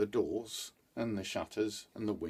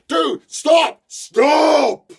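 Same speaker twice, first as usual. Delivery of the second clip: high shrieking shout as the voice turns; screeching cry; 17 dB louder, much slower than usual. A narrator's reading. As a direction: let the plea crack into a scream. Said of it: "And her voice changed".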